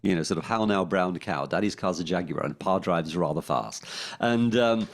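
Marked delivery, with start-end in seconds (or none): 0.5-3.8 RP accent. Shown as a demonstration. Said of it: "a typical B B C kind of accent".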